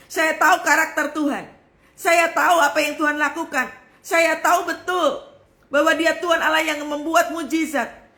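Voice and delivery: high, emphatic declaration of faith; forceful preaching. Real, not acted. Preacher declares she knows her God, high and forceful. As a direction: proclaim it with rising conviction.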